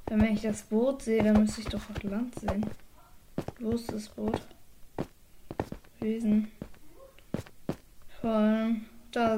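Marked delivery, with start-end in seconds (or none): 3.6-4.4 leise suchend geflüstert. Real, not acted. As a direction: die Frage tonlos hauchen. Sucht das Boot. (leises Flüstern)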